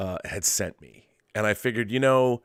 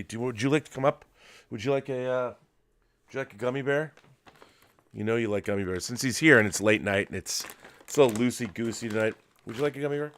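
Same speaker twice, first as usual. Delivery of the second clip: coaxing the dog; 2 semitones higher, faster than usual. Real, not acted. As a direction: tempt the dog gently. Offering a treat to his dog.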